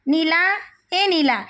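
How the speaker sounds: slow call across the yard. Acted. Mother calling her daughter in from the yard, drawn out.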